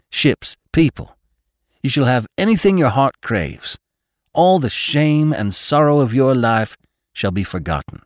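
high, impassioned promise; ringing high and sweet. A narrator's reading. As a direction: pour out a glowing vow to the beloved. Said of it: "his voice ringing high and sweet".

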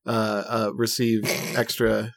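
talking around a hot bite; words through a hot mouthful; mouth full of hot food. Real, not acted. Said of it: "Sorry, it's really hot".

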